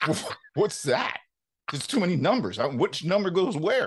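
mildly hammed-up confusion; baffled. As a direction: act out being lost in the numbers. Acts out his tax-form confusion.

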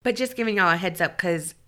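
breathing through the mouth, blocked nose; stuffy nose from a cold, breathing heavily; heavy breathing. Real, not acted. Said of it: "I will heavy breathe 'cause I can't breathe out of my nose".

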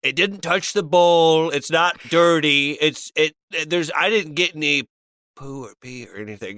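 water held in mouth. Acted. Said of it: "crazy amount of water in my mouth".

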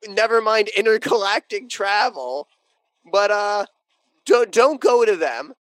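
friendly alien visitor. Pretend. Engineer lecturing ancient humans on the stars, slow mock-friendly. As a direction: greet them slowly, as if to simple folk.

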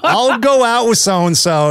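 imitating mom. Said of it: "his mom just kind of did it".

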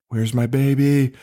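drawn-out mild retold mother's plea; lightly acted slow "Where's my baby?"; waking mother. Podcaster retells horror film's waking mother, mildly acted plea.

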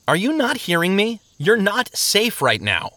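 high-pitched urgent warning; alarmed insistence. Acted. Traveler warning sleepers who ignore the danger, alarmed. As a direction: plead with them to listen.

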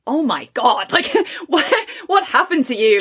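high, laughing disbelief; mock shocked through laughter; laughing fiance quote. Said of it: "my fiance is like".

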